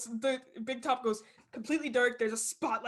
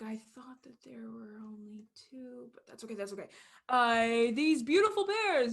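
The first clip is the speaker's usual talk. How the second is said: carnival worker. Acted. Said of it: "he's like".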